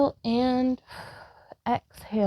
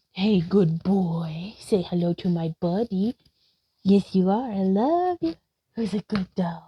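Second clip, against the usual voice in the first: praising the dog; 2 semitones lower than usual. Real, not acted. Praising the dog mid-stretch.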